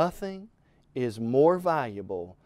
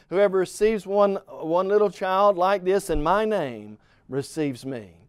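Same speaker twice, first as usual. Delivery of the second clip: raised, emphatic pulpit reading; scripture reading; 3 semitones higher than usual. Acted. Preacher reading Jesus's answer to the disciples, emphatic scripture reading. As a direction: read the verse out firmly to the congregation. Reads Scripture aloud to congregation.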